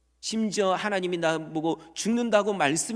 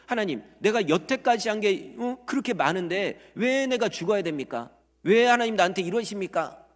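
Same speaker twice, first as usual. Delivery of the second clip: resentful complaint; 5 semitones higher, 4 dB louder than usual. Retold or imitated. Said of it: "이렇게 원망했을지 몰라요".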